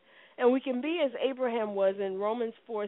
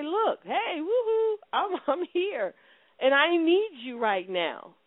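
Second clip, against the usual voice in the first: playful, higher-pitched call for attention; 4 semitones higher, slower than usual. Acted. Believer hailing God for attention, playful calling out. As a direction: hail someone high and drawn out at the end.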